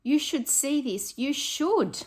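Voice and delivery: high, loud, eager wake-up call to Harry; excited character voice. Acted. A friend waking Harry to see something, high and eager.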